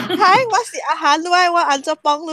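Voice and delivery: laughing customer service voice. Shown as a demonstration. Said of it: "福建話customer service的voice在講".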